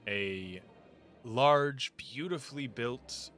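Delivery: game master recap voice; story narration. Acted.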